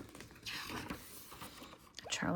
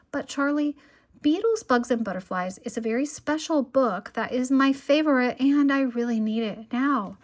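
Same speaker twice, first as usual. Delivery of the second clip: put-on higher, louder childish pleading; 4 semitones higher, 5 dB louder than usual. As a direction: beg like an eager little sister. Lola begging for her book.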